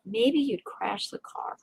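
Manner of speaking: quiet inner voice. Retold or imitated. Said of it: "That's what I said to myself".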